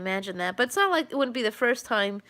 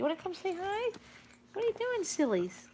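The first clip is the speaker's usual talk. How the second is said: higher, much softer, quick puppy coo; 9 semitones higher, 9 dB quieter than usual. Real, not acted. Owner coos at her snooping dog, high and soft. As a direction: tease the puppy gently in a tiny voice.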